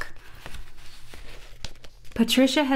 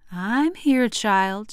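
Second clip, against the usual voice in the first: steady and soft; much slower than usual. Acted. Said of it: "Her voice was steady and soft".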